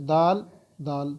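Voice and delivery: دال said slowly and carefully, letter by letter; slow, careful teacher's demo. Shown as a demonstration. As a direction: spell out دال slowly for the learner. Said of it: "آواز کیسے نکلے گی".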